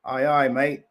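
mock Aussie greeting; Australian accent. Greeting someone across the lake, in a mock Australian accent. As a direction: put on a jokey Australian accent. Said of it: "that's, that's Australian. That's not French".

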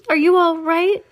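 high, loud mother's question; worried cry. Acted. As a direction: call out high in alarm. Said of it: "cried Missus T V".

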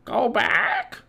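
high parrot squawk, rising on the last word; Polly squawking. A narrator's reading. Parrot warning the people below, squawking shrilly. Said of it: "she squawked".

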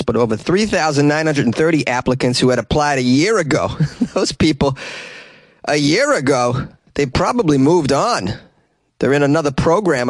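put-on broad Boston accent storytelling. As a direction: keep the Boston accent going. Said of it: "a great word to say with a Boston accent".

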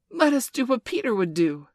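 high, loud call to action; rally the others, voice lifted; rallying cry. A narrator's reading. Boys deciding to copy Peter against wolves, rallying cry.

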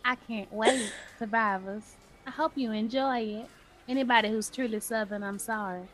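playful Southern twang; mock Southern, proudly showing it off; put-on Southern accent. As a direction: lay the Southern accent on for listeners. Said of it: "I can cuss in this accent".

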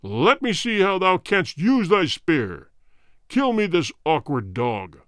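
cruel king voice. Acted. King orders execution.

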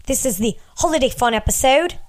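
slipping into a British accent; unintended British lilt. Real, not acted. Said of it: "I'm British right now".

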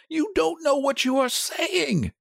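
high, distressed protest; unsteady. A narrator's reading. Husband thinks wife is raving, unsteadily. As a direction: plead with her, badly unnerved. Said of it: "he said unsteadily".

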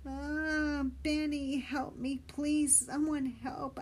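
high, loud pleading cry for help; boy shouting to Benny for help; desperate shout. Acted. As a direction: scream for rescue while dangling. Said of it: "I shouted".

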